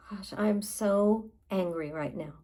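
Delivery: mildly heated venting after a sigh; a touch of exasperated anger. Shown as a demonstration. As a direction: let out some controlled frustration. Models venting anger while tapping.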